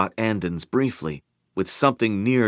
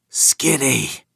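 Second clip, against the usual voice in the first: strained but calm; 5 semitones higher than usual. Acted. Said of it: "his voice strained with pain, but calmly".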